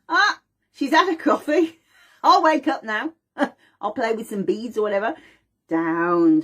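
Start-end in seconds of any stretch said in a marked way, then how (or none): 0.1-5.2 put-on high, bright, laughing baby; cheerful baby voice. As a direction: play the delighted baby waking up. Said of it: "And baby learns".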